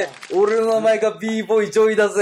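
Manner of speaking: pumped-up loud self-introduction; hyped up. Real, not acted. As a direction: hype yourself up, big and loud. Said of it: "ノリノリでする".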